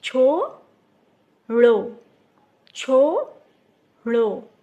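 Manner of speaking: छोड़ो stretched very slowly, loud, with a long ओ. Shown as a demonstration. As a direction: draw out the ओ in छोड़ो for the class. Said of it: "ओ की आवाज़ आ रही है". (ओ को बहुत धीरे और ज़ोर से खींचकर)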